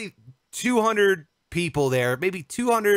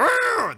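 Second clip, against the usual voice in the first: mock pirate growl. Mock outrage at podcast joke.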